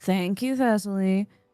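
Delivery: put-on nasal intonation with fake upset tone. Imitating how a man thanks someone when not really upset, imitating his nasal intonation. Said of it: "in the way he does with the nasal intonation when he gets upset".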